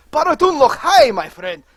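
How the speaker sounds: hearty greeting. Acted. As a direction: call out a boisterous hello.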